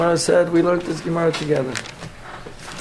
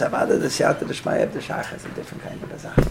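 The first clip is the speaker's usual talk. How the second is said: whispered aside; 4 dB quieter than usual. Real, not acted. Teacher's muttered aside to class.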